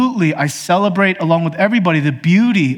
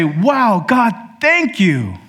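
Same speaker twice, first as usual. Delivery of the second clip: higher, slow, polite thank you; polite hollow thanks; 6 semitones higher, much slower than usual. Retold or imitated. Believers thanking God, then doing nothing, hollow high thanks. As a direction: gush a little, but hollow. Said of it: "They'll raise their pitch in their voice and go".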